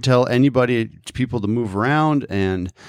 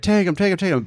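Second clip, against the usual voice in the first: yelling parents; 8 semitones higher than usual. Retold or imitated. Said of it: "And they're like".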